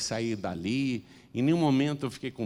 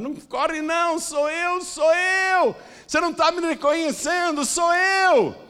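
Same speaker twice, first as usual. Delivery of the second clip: woman's very high, loud shouting; 7 dB louder than usual. Telling of a woman running after a man who fled, retelling her shouting. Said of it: "e ela gritava".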